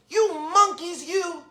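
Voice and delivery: mildly scolding peddler. A narrator's reading. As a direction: scold them, lightly acted for children. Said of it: "shaking his finger at them".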